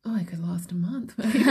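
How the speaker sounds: breathy laughing whisper. Real, not acted.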